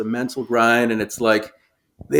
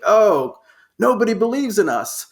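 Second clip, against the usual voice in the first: mock underdog whine; 8 semitones higher than usual. Mocking underdog talk.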